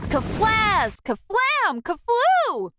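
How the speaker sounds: put-on explosive kid buildup; explosion sounds. A narrator's reading. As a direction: build each word bigger.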